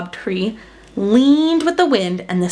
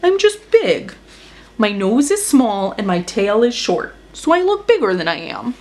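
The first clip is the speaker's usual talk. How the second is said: grumbling. Acted. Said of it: "grumbled Elephant".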